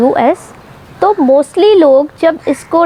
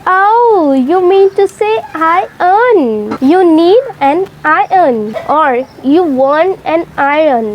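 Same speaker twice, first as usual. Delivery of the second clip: posh correcting neighbour; 2 semitones higher, much slower than usual. Acted. Skit neighbour correcting pronunciation.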